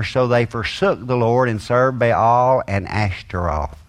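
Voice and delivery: scripture reading. Acted. Preacher reading Judges aloud to the congregation, solemn and measured. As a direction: read the passage out solemnly to the congregation.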